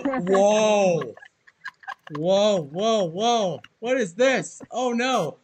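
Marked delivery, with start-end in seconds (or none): 0.0-3.6 loud amazed whoa; wow, blown away. Real, not acted. Amazed reaction to video.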